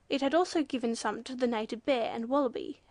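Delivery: ordinary delivery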